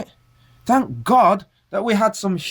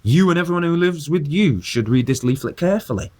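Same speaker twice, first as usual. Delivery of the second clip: reading the leaflet. Retold or imitated. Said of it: "when it says".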